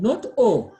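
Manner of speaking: oral O, no nasal; "O" said open, no nasal; plain O. Shown as a demonstration. Teacher contrasting plain O with nasal on. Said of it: "There's a difference between O and on".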